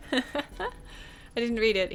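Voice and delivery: slow teasing denial through laughter; laughing denial. Acted. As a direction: laugh it out while playfully denying.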